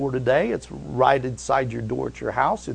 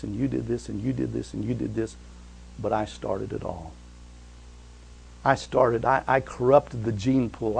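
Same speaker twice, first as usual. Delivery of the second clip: softer, fading regretful admission; Adam's confession; 3 semitones lower, 5 dB quieter than usual. Acted. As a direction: confess it quietly, growing smaller. Adam voiced confessing.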